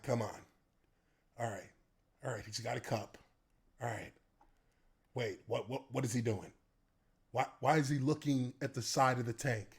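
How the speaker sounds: low, soft, quiet puzzlement; hushed puzzled inner voice. Retold or imitated. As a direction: murmur it to yourself, baffled. Watching a teammate puzzled.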